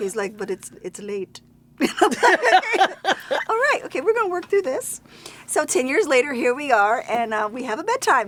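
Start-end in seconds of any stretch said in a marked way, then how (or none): 0.4-1.4 put-on heavy German accent, much quieter. Retelling how a man argued about her bedtime, in a heavy German accent. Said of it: "he had a very heavy German accent".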